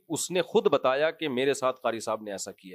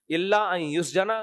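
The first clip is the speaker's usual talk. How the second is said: Quranic recitation; slower than usual. Acted. Preacher quotes Quranic verse.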